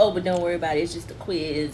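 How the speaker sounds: ordinary delivery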